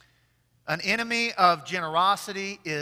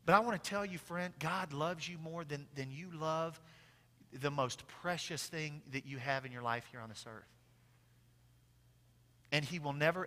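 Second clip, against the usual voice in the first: tender reassurance; 2 semitones lower, 10 dB quieter than usual. Real, not acted. Preacher telling a friend God loves them, soft and reassuring. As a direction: reassure a friend, much softer and gentler.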